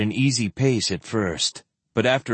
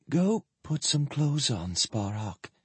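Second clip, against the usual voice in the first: near whisper; 2 semitones higher, 8 dB quieter than usual. A narrator's reading. Ailing woman sends Sparhawk to dress, hardly above a whisper. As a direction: give the order with little strength. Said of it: "hardly more than a whisper".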